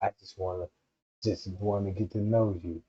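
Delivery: best behavior. Retold or imitated. A man voicing his best behavior to a woman, low and soft. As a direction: play it low and innocent. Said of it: "the nigga be like".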